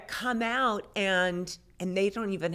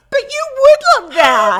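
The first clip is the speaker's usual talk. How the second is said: loud, high laugh through the line; 17 dB louder than usual. Real, not acted. Teasing back about loving animals, laughing. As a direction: laugh it out, delighted.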